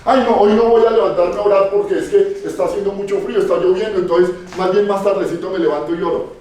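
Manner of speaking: a hint of a lazy believer sighing out excuses; preacher mocking a lukewarm believer's excuses, mildly whiny; mock lazy churchgoer. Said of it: "Las toma así efímeramente".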